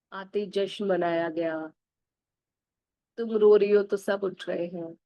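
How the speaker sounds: slow, tender words to her own reflection; self-affirmation. Acted. Speaking to her own reflection in the mirror, tender and affirming. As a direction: reassure yourself in the mirror, gently.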